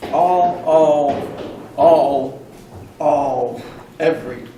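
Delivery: loud, punched "all" each time; preacher pounding one word; emphatic repetition. Real, not acted. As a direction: hammer the word home. Preacher hammering repeated word.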